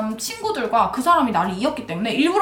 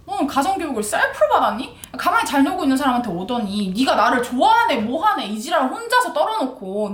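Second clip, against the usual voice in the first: mock scolding, pitched up; ranting; 2 semitones higher than usual. Woman telling off the pushy suitor, retold rant. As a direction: retell a furious telling-off with emphatic bite. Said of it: "그 창법으로 이제 개 지랄을".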